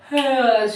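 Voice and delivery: acted waking-up sigh; stretching yawn. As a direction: sigh as if stretching after sleep.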